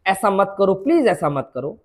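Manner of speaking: low, hushed lover's plea; acted gentle entreaty; soft pleading. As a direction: plead quietly, voice dropped low. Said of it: "ऐसा बोल रहा है वो".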